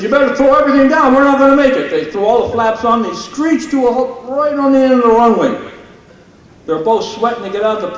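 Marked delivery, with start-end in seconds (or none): 0.0-1.9 higher, louder, fast urgent plea; panicked pilot. Retold or imitated. Pilot Vic to his co-pilot, fast panicky call. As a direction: hurry it out like the plane is going down. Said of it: "Old Vic sweating says".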